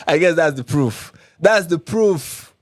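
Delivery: mock the so-called proof; sarcastic. Real, not acted. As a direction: drag it out in scornful disbelief. Mocking a flimsy claim of proof.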